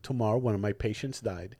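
low, soft and matter-of-fact; deadpan doctor imitation. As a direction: imitate a doctor stating grim news dryly. Doctor offers opening, deadpan.

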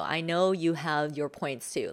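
usual speaking voice

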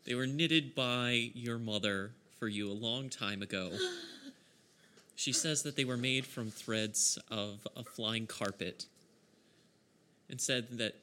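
measured storyteller's scene setting; game master narration. Acted. Game master tells players of their precious lost socks, storytelling. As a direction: narrate the backstory with deliberate phrasing.

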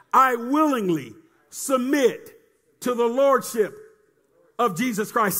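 slow, deliberate confession; solemn spaced-out creed; slow declaration. Shown as a demonstration. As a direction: lead the words out slowly for the crowd to repeat. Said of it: "Say this".

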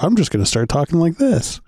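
badly faked Scottish lilt; bad Scottish accent. Co-host mocks an Imperial's affected accent, fake Scottish. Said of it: "that dude's not Scottish".

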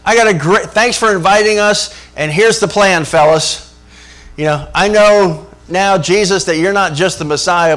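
lightly voiced brash, know-it-all Peter; a hint of a pushy Peter taking charge; clueless Peter. Preacher mimics Peter bossing Jesus, a touch brash. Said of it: "the voice of ignorance comes out as Peter says".

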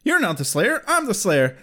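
lightly acted indignant challenge in own accent; mild mock face-off without an accent; Buffy. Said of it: "Buffy says".

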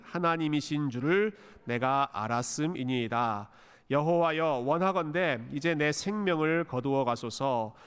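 slow, measured scripture reading; 차분하고 온유한 낭독. Real, not acted. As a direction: read the prayer calmly and gently, drawing out the phrases. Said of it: "너무 차분하게 온유하게 읽으셨어요". (차분하고 온유하게 천천히 읽는 기도문)

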